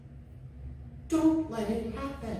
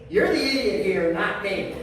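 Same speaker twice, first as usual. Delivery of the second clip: louder, indignant comeback; angry retort; 4 semitones lower, 4 dB louder than usual. Retold or imitated. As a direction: throw the blame right back. Acted parking lot quarrel.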